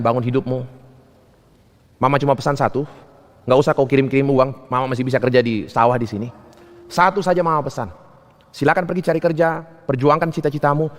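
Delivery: restrained parental farewell; mother's farewell counsel. Retold or imitated. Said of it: "Ibu saya cuma bilang begini".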